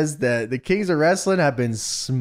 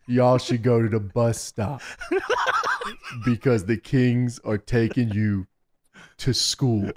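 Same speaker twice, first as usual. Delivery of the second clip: laughing through a quote; 5 semitones lower, 3 dB quieter than usual. Retold or imitated. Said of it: "He says".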